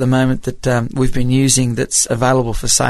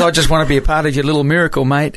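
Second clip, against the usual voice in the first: laughing while quoting; 3 semitones higher, faster than usual. Retold or imitated. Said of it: "He says".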